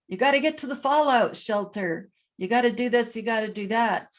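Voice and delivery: hurried mock alarm about the fallout shelter; mock panic. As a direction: play a relative freaking out, only half in earnest. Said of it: "they may be freaking out going".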